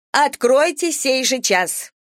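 high, slow commanding demand; stern demand, high and drawn out; prosecutor's demand. A narrator's reading. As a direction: order it like a prosecutor. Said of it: "прокурорским тоном".

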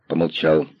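ordinary delivery

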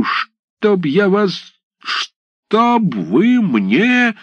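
нарастающий гнев, до захлёба; грозить и задыхаться от злости; грозный голова. Acted. (голова в ярости грозит десятским комиссаром)

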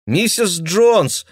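high, slow call of her name; girl calling to Mrs Jones; calling through door. Acted. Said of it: "позвала девушка".

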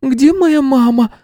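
put-on very high, slow whining child; whimpering little girl. A narrator's reading. Frightened girl whimpers to the teacher. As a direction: whimper for mommy. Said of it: "захныкала девочка".

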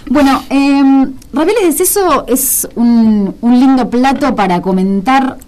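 talking through a mouthful of ravioli; chewing while talking. Real, not acted. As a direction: speak while chewing food. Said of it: "comiendo, masticando".

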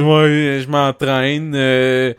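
lame, halting imitation; half-hearted mimicry padded with fillers; Mathieu. Improvising a poor imitation of co-host, halting delivery. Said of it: "le plus plate de cette imitation poche".

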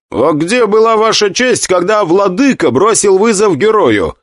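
high, loud challenge. Acted. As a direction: demand an answer loudly. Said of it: "громко спросил я".

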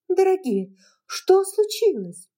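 high, loud alarmed question; alarmed cry. Acted. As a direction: rush in worried. Melanie alarmed.

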